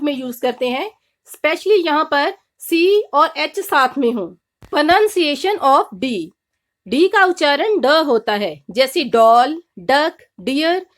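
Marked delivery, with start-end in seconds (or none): 4.7-6.1 very slow, drawn-out heading; slow announcement. Shown as a demonstration. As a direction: spell out the title slowly, like a teacher. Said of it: "announcing the next letter".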